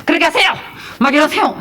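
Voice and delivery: loud, high mock command; sudden hammed-up yelled order; imitated shouting. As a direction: shout it like a bossy copycat. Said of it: "소리치는 것만 배워갖고".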